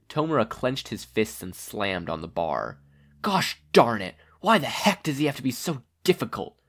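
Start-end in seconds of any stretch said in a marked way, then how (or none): 3.2-6.6 lightly voiced grumpy young villain; a hint of a petulant villain; Tomura's voice. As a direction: grumble like a sulky villain.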